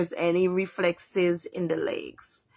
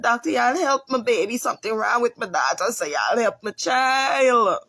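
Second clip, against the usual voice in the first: retold begging; 2 semitones higher than usual. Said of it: "I begged".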